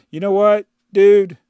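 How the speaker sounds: loud fed-up jab; exasperated. Real, not acted. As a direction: call him out loudly. Arguing with commenter.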